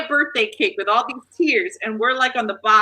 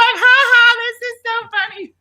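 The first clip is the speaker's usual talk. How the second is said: mock laugh; 10 semitones higher, 4 dB louder than usual. Mock laughing at the butt joke.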